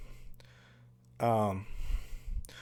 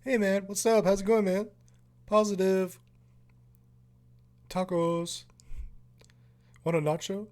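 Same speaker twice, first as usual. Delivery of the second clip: much higher, airy stoner-dude voice; laid-back dude Dave; 9 semitones higher than usual. Retold or imitated. Mocking Dave's cool vibe to the viewers, high stoner-dude voice. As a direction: play the chill guy who offers everyone snacks. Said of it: "Totally cool vibe, dude".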